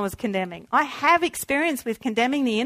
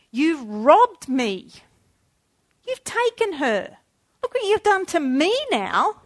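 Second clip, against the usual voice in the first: retold rage at God; 3 semitones higher than usual. Daughter accusing God of robbing her, rising anguish. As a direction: pour out grief-stricken blame, voice climbing. Raging at God over mother's death.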